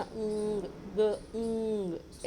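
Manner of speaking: ऊंग drawn out as a long nasal sound; ng sound isolated. Shown as a demonstration. Teacher breaking down the word for children, ऊंग held long. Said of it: "ऐसा आया इसका उच्चारण".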